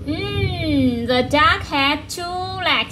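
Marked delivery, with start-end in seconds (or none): 1.1-2.9 slow model sentence. Shown as a demonstration. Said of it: "You say again?".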